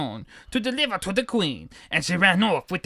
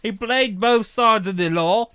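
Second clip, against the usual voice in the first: put-on Cockney accent; 2 semitones higher than usual. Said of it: "Cockney accent".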